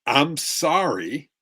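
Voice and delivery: slow, drawn-out sorry with a rising end; insincere, dragged-out apology; grudging apology. Shown as a demonstration. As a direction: stretch sorry out like you don't mean it. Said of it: "and the tonality is".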